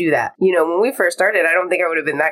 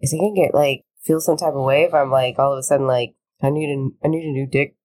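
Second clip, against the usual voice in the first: mock deep voice. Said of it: "Not sure why I had a deep voice for that".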